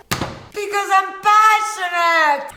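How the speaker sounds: drawn-out, theatrical yelling; passionate yell. Pretend. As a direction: yell it out with passion, stretching the words. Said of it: "Why do you always yell".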